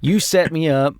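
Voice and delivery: accusing non-rhotic Southern voice; Southern accent. Acted. Character confronting the sibling, indignant Southern accent. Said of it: "non-rhotic Southern accent".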